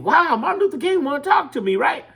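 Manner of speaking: high, thrilled inner voice; high, excited mock gush; starstruck. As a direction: gush like a starstruck young woman.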